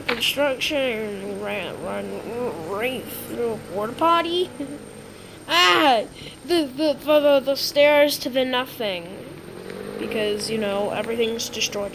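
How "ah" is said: startled cry. Pretend. Cries out while running in game.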